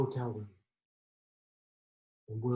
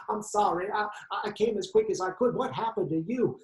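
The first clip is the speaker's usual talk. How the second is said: concerned friend; 6 semitones higher than usual. Acted. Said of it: "And he said".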